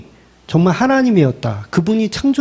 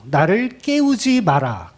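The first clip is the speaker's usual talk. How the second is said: don't wake me; 4 dB quieter, slower than usual. Retold or imitated. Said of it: "깨웠다고 화를 내시는 거예요".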